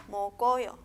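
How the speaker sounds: "Mokoyo" as mo-ko-yo, k starting the middle syllable; linked consonant. Shown as a demonstration. Teacher repeating the joined reading, "Mokoyo" as mo-ko-yo. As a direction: say "Mokoyo" joined up, no stop after the k. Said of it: "se va a unir a la vocal".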